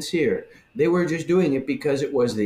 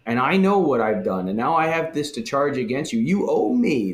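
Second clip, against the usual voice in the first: smug entitlement. Retold or imitated. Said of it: "This is that manipulative thing".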